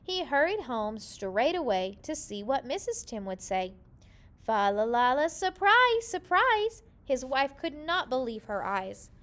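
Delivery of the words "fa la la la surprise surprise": excited. A narrator's reading. Gardener surprising his wife.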